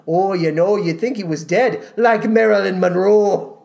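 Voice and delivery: lightly voiced gossiping neighbor, laughing at the end; a hint of a nosy neighbor passing on gossip; mock gossiping neighbor. Host mocks the lyric as neighbors gossiping, light gossipy voice. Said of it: "the neighbors are whispering".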